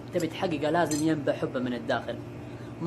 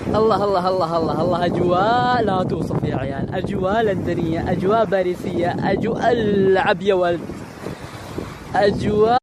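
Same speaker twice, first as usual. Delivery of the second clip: louder, delighted exclaiming; excited; 4 dB louder than usual. Real, not acted. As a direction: marvel out loud at the view.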